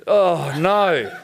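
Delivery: drawn-out, falling oh no; hammed-up letdown; demonstrated dismay. Shown as a demonstration. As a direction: groan it in mock disappointment. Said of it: "go like this".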